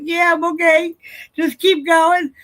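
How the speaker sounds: high, loud, strained-brave reenactment; tearful reassurance. Retold or imitated. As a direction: act out insisting you're okay through tears. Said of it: "and I'm crying".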